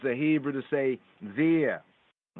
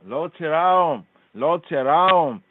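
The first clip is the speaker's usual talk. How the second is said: firm, louder command; rising commanding repeat; 6 dB louder than usual. Retold or imitated. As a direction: order them not to fear. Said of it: "he's commanding here".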